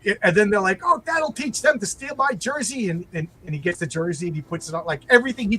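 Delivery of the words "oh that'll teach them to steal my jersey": gloating sitcom husband. Retold or imitated.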